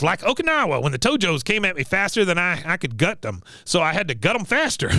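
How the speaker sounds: lightly voiced war veteran, pitched high; Cotton. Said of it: "He goes".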